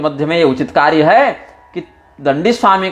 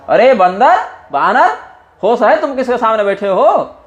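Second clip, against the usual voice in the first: mocking Ravana; 6 semitones higher than usual. Ravana scolding Angad.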